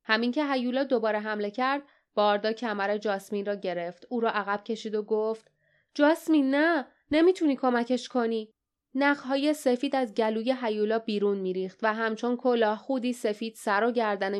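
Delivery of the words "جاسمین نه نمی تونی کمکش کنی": raised, loud urgent plea; urgent warning. Acted. Barda holds Jasmine back, urgently raised voice. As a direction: stop her from running in.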